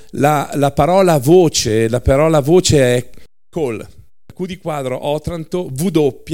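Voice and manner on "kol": kol said short with a hard k; kol, one syllable, like cole; Hebrew word. Shown as a demonstration. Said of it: "si legge cole".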